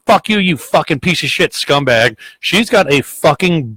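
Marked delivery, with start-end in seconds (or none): 0.1-2.2 higher-pitched mock tirade; retold angry yelling. Woman cursing the plow driver at her window, retold mock yelling. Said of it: "still fucking yelling and screaming".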